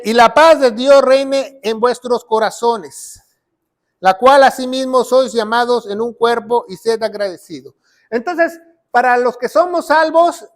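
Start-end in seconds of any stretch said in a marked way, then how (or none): 0.0-7.7 loud, measured Bible reading; raised preacher's voice, deliberate phrasing; scripture proclamation. Acted. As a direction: read the verse out firmly to a congregation. Reads scripture out loudly.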